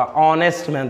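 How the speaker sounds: ऑनेस्ट man said slowly from an open O; silent H. Shown as a demonstration. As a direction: start ऑनेस्ट on the vowel, no H, unhurried. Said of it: "ओ का". (ऑनेस्ट man, बिना "ह" के, "ओ" से धीरे-धीरे)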